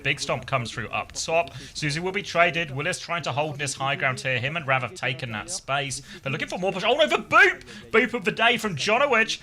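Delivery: quick, rolling esports commentary; live play-by-play. Real, not acted. Caster narrating a team fight to stream viewers, live play-by-play. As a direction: call the action as it happens, lifting on big moments.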